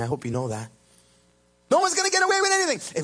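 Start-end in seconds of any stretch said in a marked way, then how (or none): 1.7-3.0 "No one's gonna get away with anything" repeated much higher and louder. Shown as a demonstration.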